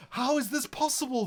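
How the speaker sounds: high squeal of delight at cuteness; overwhelmed by cuteness. Real, not acted. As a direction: gush over something adorable. Cute creeper feet seen.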